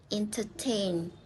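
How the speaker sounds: "entertain" with the beat on TAIN; stress on final syllable. Shown as a demonstration. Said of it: "then we stress in the final syllable".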